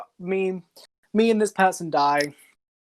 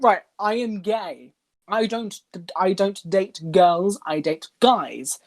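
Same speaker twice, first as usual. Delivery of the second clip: slow, spelled-out retold explanation; deliberate, simplified phrasing; dumbed-down explaining; slower than usual. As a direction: lay it out slowly as for someone not following. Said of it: "put this in the dumbest way possible".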